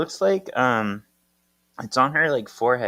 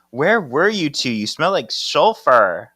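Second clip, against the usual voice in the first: scolding; 5 semitones higher, 6 dB louder than usual. Retold or imitated. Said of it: "and she goes".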